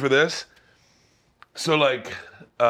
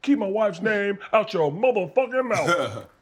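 a lightly voiced mock threat; hard and cocky, warning; angry rapper; 5 semitones higher than usual. Showing the rapper build-up, a touch of menace. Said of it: "back yourself into anger to a rapper".

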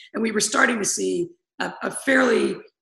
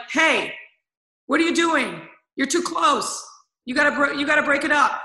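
higher-pitched mock scolding from a car window; retold calling out; 6 semitones higher than usual.

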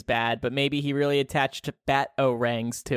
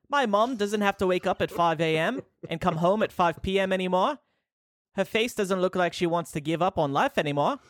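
bad Cockney; 3 semitones higher than usual. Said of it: "That was just as bad as me".

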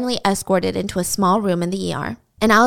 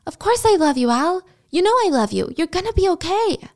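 higher-pitched, earnest comforting; tender insistence in a raised pitch; reassuring; 8 semitones higher than usual. Acted. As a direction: reassure a loved one, pitched up. Quoted reassurance acted in story.

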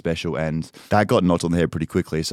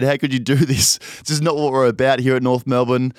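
mock-upset plea, higher pitch; 5 semitones higher than usual. Retelling his upset mate's protest at the footy, upset. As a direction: plead like a mildly wounded friend. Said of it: "Sam started getting upset".

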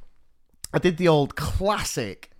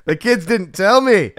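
loud, higher TV-detective grilling; Line of Duty interrogator; 8 semitones higher, 10 dB louder than usual. Acted. Teacher grilling a lying pupil, loud mock-detective interrogation. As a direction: lean in and grill him like a police interrogator. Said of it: "closest to Line of Duty I'm ever gonna get".

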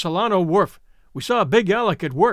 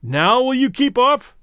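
higher, louder, slow demand; 5 semitones higher, 4 dB louder, slower than usual. A narrator's reading. Big Alec aiming his rifle at the narrator, demanding. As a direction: drag out the demand with menace. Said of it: "he demanded".

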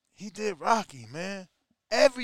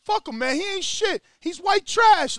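mock furious Paulie, higher and louder; hammed-up shout egging Rocky on; Paulie yelling; 9 semitones higher, 5 dB louder than usual. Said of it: "So Paulie like".

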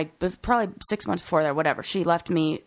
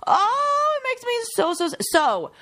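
crying over her grandma's lost voicemails; choked up, sobbing through the words; real crying; 11 semitones higher, slower than usual. Real, not acted. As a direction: voice breaking into tears, high and strained. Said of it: "Oh, my God, I cry thinking about it".

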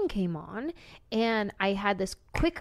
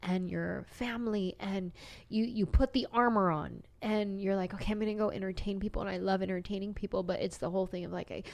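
softer, holding back real emotion; emotional; 5 dB quieter than usual. Real, not acted. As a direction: talk quietly through welling feeling. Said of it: "I'm getting emotional right now".

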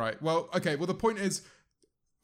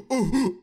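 mock Heisenberg gasp; 5 semitones higher, 5 dB louder than usual. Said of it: "I said it again".

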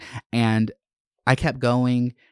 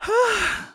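long high breathy exhale; calming sigh. Real, not acted. Creator resetting after a rant, long sigh. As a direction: let out a big breath to reset. Pausing to calm down after ranting.

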